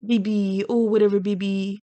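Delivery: lightly mimicked fiancé talk; imitating the fiancé. Mocking Shayna's fiancé for viewers, light imitation. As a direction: give a light take-off of how he talks. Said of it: "That's how he talks".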